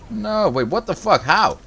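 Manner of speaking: panicked disbelief. Real, not acted. Streamer realizing the storm is closing in, alarmed shouting. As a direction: shout in rising panic as things go wrong. Caught by the storm mid-game.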